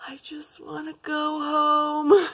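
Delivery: whispered, slow and pleading; whispered plea. Retold or imitated. Herself at dinner, wishing to escape, whispered plea. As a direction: breathe it out like a secret wish. Stuck on a bad date.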